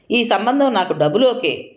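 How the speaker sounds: happily. A narrator's reading. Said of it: "అన్నాడు మూర్తి ఆనందంగా".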